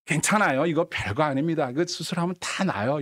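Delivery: lightly voiced breezy reassurance; reassuring doctor. Doctor telling a patient surgery will fix it, reassuring. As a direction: play it down to ease worry. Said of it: "환자들 마음이 편안해요".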